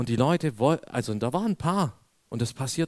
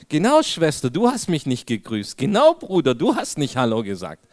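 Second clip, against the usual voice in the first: louder, pointed teasing call-out; mock accusation; 4 dB louder than usual. Preacher teasing congregants who ignored him, louder mock reproach. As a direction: call them out with a grin.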